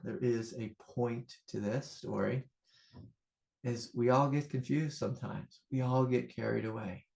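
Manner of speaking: soft, reflective teacher's voice; gentle spiritual teaching. Acted. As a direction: quietly draw the lesson from the story.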